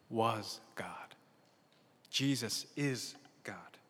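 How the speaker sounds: hushed whisper of was God; whispered reveal. Real, not acted. Pastor hushing the congregation on the key word, whispered. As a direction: drop to a whisper for weight.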